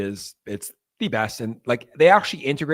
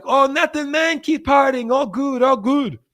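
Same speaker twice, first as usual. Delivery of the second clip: high, louder, breezy brush-off; smooth-talking gangsters; 12 semitones higher, 5 dB louder, slower than usual. Retold or imitated. Gang men brushing off the drunk tourist, high loud breezy reassurance. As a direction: wave him off, nothing to see here. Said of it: "And they're like".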